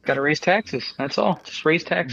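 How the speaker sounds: deadpan ironic suggestion; sarcastic. Acted. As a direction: say it straight but mean the opposite. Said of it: "I'm being sarcastic".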